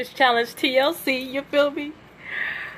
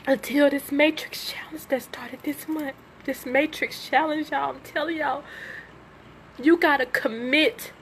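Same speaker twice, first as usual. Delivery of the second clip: hushed whisper; 7 dB quieter than usual. Real, not acted. Calming down after crying.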